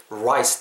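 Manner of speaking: "rice" with a silent oo before the r; precise rounded r. Shown as a demonstration. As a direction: start "rice" from rounded lips. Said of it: "딱 정확한 이 발음". ("rice"를 소리 없는 '우'에서 시작해 정확히)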